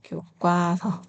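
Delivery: 교과서 said as 교꽈서; tensed 과. Shown as a demonstration. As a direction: model 교과서 with a hard kkwa in the middle. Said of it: "이렇게 소리가 납니다". (교과서를 [교꽈서]로 또박또박)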